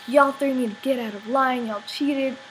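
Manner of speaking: hammed-up accusing mom, half-serious; imitating an angry mom. Mom scolding the girls for cutting the line, mild mock yell. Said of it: "starts yelling at me and my friends".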